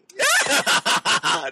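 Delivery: high, loud burst of laughter. Real, not acted. Co-host joking over which role, laughing. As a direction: cackle out loud.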